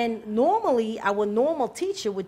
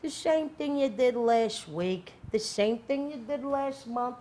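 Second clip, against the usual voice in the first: patient scolding, building at the end; weary stern dean; slower than usual. Retold or imitated. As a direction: dean to student, slow and exasperated. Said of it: "He's like".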